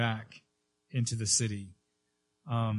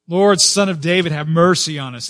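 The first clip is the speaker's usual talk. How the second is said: blind men crying out; 3 semitones higher, 8 dB louder than usual. Acted.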